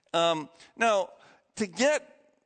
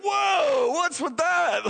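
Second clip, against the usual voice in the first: amazed cry; 11 semitones higher, 4 dB louder, much slower than usual. Retold or imitated. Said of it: "And everyone's like".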